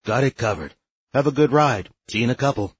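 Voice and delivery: easygoing raspy reply. Acted. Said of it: "came the raspy voice".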